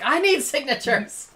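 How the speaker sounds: high, loud, drawn-out mock demand; slow, loud pretend pleading; demanding fan. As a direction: call out like an overeager fan. Acting demanding fan with book stacks.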